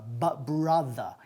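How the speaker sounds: "brother" with an open A, as "BRA-tha"; open-jawed vowel. Shown as a demonstration. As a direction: drop the jaw on "brother", low in pitch. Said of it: "Bajando la mandíbula".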